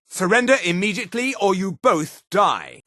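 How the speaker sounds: high demand, rushed then slowing; urgent high-pitched ultimatum; shouted ultimatum. Acted. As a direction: demand surrender fast, then draw out the threat. Guard demands surrender.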